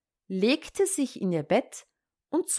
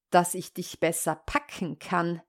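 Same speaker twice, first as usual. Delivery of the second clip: restrained, lower wolf's reply; a hint of sly wolf, kept down; lightly voiced disguised wolf; 3 semitones lower, 4 dB quieter than usual. Disguised wolf answers the girl.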